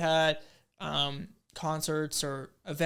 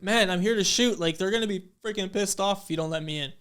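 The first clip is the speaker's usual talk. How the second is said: frustrated retelling; 3 semitones higher, 5 dB louder than usual. Retold or imitated. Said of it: "So I get mad".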